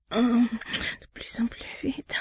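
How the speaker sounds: slow, hushed afterglow; soft intimate whisper. Acted. To her partner after climax, slow soft whisper. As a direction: let it drift out in a slow whisper.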